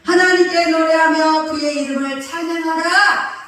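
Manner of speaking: slow, loud, high joyful reading; joyful proclamation. Shown as a demonstration. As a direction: sing it out as the song arrives. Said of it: "이제 노래가 나와". (노래가 터져 나오듯 기쁘게 낭독)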